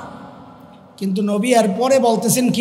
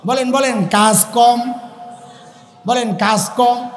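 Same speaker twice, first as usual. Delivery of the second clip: slow prompting; slower than usual. Shown as a demonstration. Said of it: "মুখস্থ করেন আমার সাথে".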